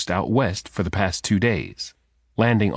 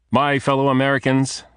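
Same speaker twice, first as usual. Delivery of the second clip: formal speech; 5 semitones higher than usual. A narrator's reading. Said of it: "Talbot said".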